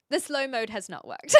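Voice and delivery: laughing it out in disbelief; a laugh breaking through the words; amused disbelief at the failure. Real, not acted.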